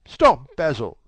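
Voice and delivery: sharp loud cry of protest. Acted. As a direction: cry out to stop him, leaping up. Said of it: "cried Dorian".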